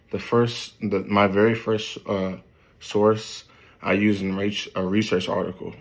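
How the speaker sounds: tripping over words, cut off; stumbling. Real, not acted. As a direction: stumble and restart the phrase.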